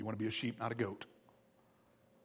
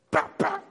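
imitated double tap; 6 dB louder than usual. Imitating the staff taps.

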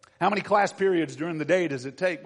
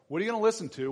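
higher, louder demand on listen; pressing question; 7 semitones higher, 3 dB louder, much faster than usual. Shown as a demonstration. Preacher to teenagers, pressing the question harder. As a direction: challenge them with it.

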